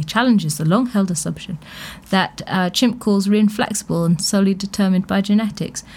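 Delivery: reading the study's stock phrase in a lightly pompous tone; a touch of dry mockery of academic wording; mock formal quote. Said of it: "I love that they always say".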